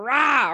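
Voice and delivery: a short half-hearted rah; a quick mock angry growl. Shown as a demonstration. Coach demos a wordless feeling as a growl. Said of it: "we use words like".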